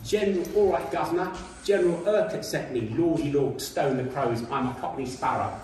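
hammed-up Cockney chirpy-chappie patter; mock English accent. Lecturer mocking a film character's lines, exaggerated English accent. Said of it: "he talks with an English accent".

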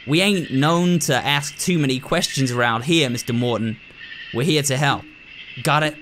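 lightly voiced folksy rural doctor, blunt; a hint of a no-nonsense backwoods doctor; gruff country doctor. Doctor lecturing the new nurse, lightly folksy and blunt.

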